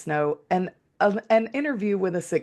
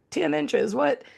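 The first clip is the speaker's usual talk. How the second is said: higher mock scoff; mocking northerners; 9 semitones higher, slower than usual. Mimicking northerners scoffing at Tennessee snow, high mock scoff. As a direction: scoff at how little that is. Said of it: "the people up north are laughing".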